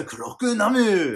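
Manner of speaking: loud, high, drawn-out title call; hammed-up disaster film announcement; mock trailer shout. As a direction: belt it out like a monster movie title.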